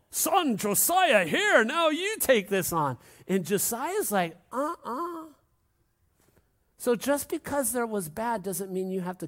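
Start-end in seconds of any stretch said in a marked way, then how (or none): 0.1-3.0 higher, louder, slow voice of a father passing on the mantle; slow and weighty, like a dad handing over his legacy; solemn father. Retold or imitated. 4.5-5.2 refusing son. Retold or imitated. Josiah refusing his father.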